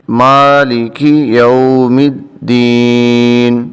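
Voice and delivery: slow chanted verse with long vowels; Quran recitation. Shown as a demonstration. Teacher recites verse to the class, slow chanting. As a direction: draw out مالک slowly. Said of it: "آگے چلتے ہیں".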